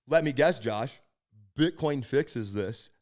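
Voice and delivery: slow, mocking drawl on the last words; imitating a smug, sneering colleague; sarcastic. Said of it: "Very sarcastically".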